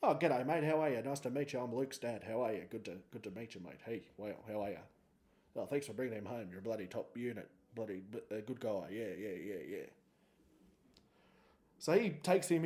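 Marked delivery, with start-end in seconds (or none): 0.0-9.9 flustered dad. Retold or imitated. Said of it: "And he went".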